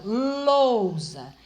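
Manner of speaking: "lousa" with "ou" said as one syllable, the "u" weak; correct pronunciation. Shown as a demonstration. Teacher modelling lousa for students, weak glide. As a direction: say "lousa" with the "u" barely sounded. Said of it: "o U é pronunciado com menos força".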